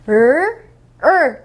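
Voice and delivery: "을" as a loose English R; tongue-twisted R. Shown as a demonstration. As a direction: curl the tongue back on each "을". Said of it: "혀 꽈보세요".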